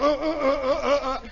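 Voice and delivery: jerky repeated "uh" grunts; bucking plane noise. Retold or imitated. Imitating the dragged plane, jolting grunts. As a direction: grunt in jolts like a shuddering plane. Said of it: "and the plane is going".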